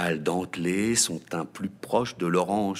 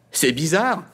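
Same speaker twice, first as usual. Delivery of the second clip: whispered remark; 9 semitones higher, 6 dB louder than usual. A narrator's reading. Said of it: "dit soudain Mimosa".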